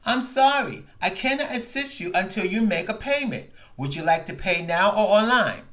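a hint of an automated menu voice; lightly voiced phone robot. Retelling the call, a light robotic phone menu voice.

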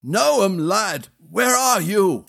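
calling out. Acted. Prince calling for lost boy.

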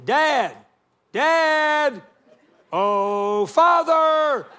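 put-on high, loud yell of a scared little boy; panicked child yelling. Son yelling to dad from a sinking boat, high panicked shout. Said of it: "Josh is yelling at me".

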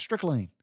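"strychnine" run together quickly as strick-leen, one word; said fast. Retold or imitated. Son quoting how Daddy said it, fast and run together. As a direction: slur "streak of lean" into one quick "strychnine". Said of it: "Daddy always just said it fast".

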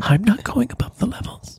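whisper yelling. Acted. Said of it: "putting myself forward for a little bit of emphasis".

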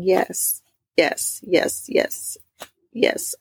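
half-whispered surrender, trailing off; retold whispered yeses.

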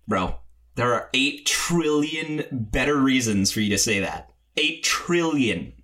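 slow, emphatic disbelief; drawn-out exasperation; exasperated retort. Retold or imitated. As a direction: spell it out, weighing each word. Acts own exasperated retort.

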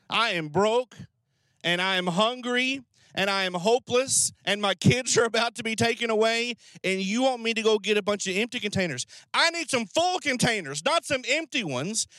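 a touch of exasperated disbelief; mild incredulous protest. Acted. Desperate widow told to fetch empty containers, mildly protesting.

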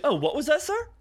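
high, overly polite challenge; mock polite. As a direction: fake courtesy with a threat under it. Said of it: "so being all polite and shit".

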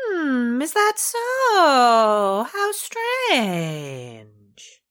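sly slow knowing tone. Acted. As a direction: feign innocence, slowly. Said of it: "your knowing voice".

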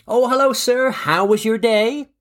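put-on a jokey, half-hearted New York accent greeting a diner; mock New York accent. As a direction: play a cheery New York waiter, in a hammed-up New York accent. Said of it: "I can't do the New York accent".

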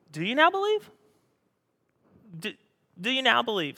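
sarcastic Jesus asking his disciples if they now believe. Retold or imitated. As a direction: needle them with the question. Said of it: "this is sarcastic".

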